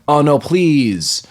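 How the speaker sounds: drawn-out, halting mock plea; mocking a movie's overlong pauses, slowly; slow dramatic plea. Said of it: "dramatic pauses".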